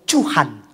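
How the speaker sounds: "Tuhan" begun with a ch sound, "Chuhan"; altered pronunciation. Acted. Broke believer addressing God, "Tuhan" slurred into "Chuhan". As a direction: turn the T of "Tuhan" into a ch. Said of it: "Bukan cu-, Tuhan lagi".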